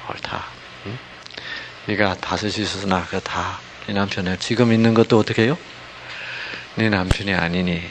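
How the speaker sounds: low-key, sympathetic, with long pauses; compassionate reading. Shown as a demonstration. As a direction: read it gently, feeling for her empty life. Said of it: "이렇게 읽는 게 아니고". (안타까워하며 차분하고 부드럽게)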